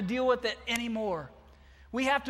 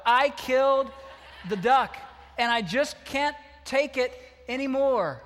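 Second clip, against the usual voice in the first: loud, half-laughing wail; preacher hamming up the boy's confession; 3 semitones higher, 4 dB louder than usual. Retold or imitated. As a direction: blurt the confession while laughing.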